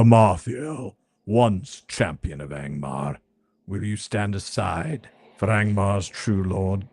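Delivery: low, slow menacing wraith voice; cold undead wraith. Acted. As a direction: gloat over her, slowly. Undead wraith tells his story.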